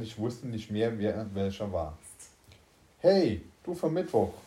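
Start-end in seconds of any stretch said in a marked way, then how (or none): 3.0-4.3 high, loud call for attention. A narrator's reading. Spacesuit wearer hailing the Wednesday self, loud call. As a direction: call out urgently to someone. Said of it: "rief der Raumanzug".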